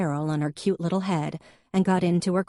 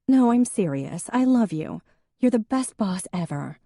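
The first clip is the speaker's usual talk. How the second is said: gushing; 6 semitones higher, 4 dB louder than usual. A narrator's reading. Em gushing at her boss.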